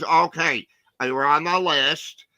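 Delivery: gentle and sweet. Retold or imitated. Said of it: "really gentle, really sweet".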